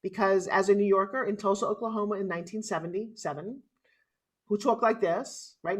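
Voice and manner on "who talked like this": slow, drawn-out New York accent; a touch of New York accent, slowed down. Shown as a demonstration. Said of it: "Now I got the New York accent going".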